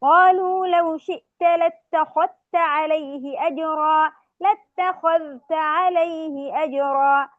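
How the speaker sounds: slow chanted verse; Quranic recitation. Shown as a demonstration. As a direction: recite لاتخذت عليه أجرا slowly. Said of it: "قوله تعالى في سورة الكهف". (ترتيل بطيء للآية)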